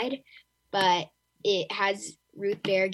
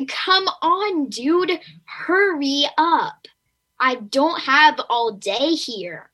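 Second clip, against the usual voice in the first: high, loud, drawn-out exasperated plea; impatient; 6 semitones higher, 6 dB louder, slower than usual. Acted. Young reader to slow audiobook narrator, impatient. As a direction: hurry someone along with loud, stretched-out impatience. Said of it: "when the audio people read slow, I'm like".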